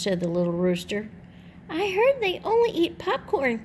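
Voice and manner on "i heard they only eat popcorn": much higher clucky hen voice; high hen voice, sure of itself; clucking small chicken. A narrator's reading. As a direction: cluck it like a know-it-all hen. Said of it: "clucked the small chicken".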